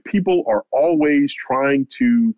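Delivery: slow, building mock anger; imitating a boxer's rising bitterness, drawn out; retold grudge, slowed and pressing; getting angry. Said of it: "he starts to get angry".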